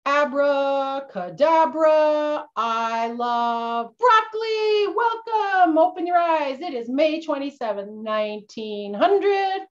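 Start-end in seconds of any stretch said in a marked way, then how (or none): 0.1-4.9 slow, drawn-out magic words like a stage magician; mock magic spell. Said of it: "And I'm gonna say". 4.9-6.6 high, bright announcement of arrival; excited welcome. Pretend. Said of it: "arrival after time machine".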